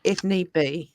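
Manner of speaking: slow, posh English delivery; posh English, unhurried and softening at the end; posh English accent. Shown as a demonstration. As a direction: put on measured, posh English. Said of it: "I can do posh".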